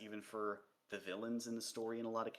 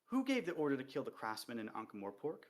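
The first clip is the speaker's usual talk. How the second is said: comfortable sing-song voice. Acted. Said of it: "same comfortable, sing-song voice".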